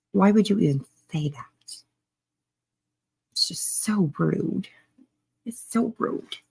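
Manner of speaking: hushed, offended whisper; whispered aside. Real, not acted. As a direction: whisper it like the remark stung. Mock-offended aside to the chat.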